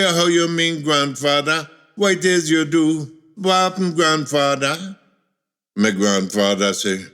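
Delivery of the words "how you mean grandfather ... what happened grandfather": higher-pitched puzzled grandson; a touch of bewildered concern; mild alarmed questioning. Acted. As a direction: press him with worried questions.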